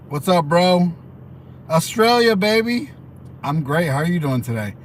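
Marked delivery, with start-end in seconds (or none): 0.1-2.9 higher, excited cheer for Australia; excited shout-out. Real, not acted. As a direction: hype up the viewer from Australia. Greeting a viewer from Australia.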